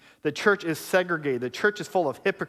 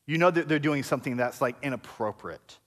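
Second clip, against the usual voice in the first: gossiping accusers; 4 semitones lower, 3 dB quieter than usual. Retold or imitated. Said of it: "the Jews saying".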